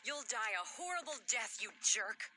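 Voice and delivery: cursing. Acted. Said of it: "the woman cursing me".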